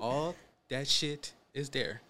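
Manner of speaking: slow, soft mocking drawl; mocking her sign-off. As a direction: stretch it out teasingly. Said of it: "he always makes fun of".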